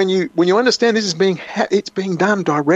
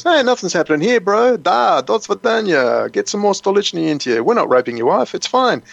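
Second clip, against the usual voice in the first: lightly voiced mock Russian tough guy, higher; breezy higher fake reassurance with a hint of Russian; Putin; 4 semitones higher than usual. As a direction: casually brush off the husband at the door in a light mock Russian voice. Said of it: "Putin pops his head out and goes".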